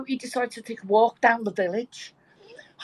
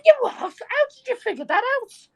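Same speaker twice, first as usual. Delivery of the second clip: very high, comically incredulous squawk; stunned disbelief; 3 dB louder than usual. Acted. Old man stunned by old lady's correct guess, incredulous. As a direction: blurt it out in mock shock.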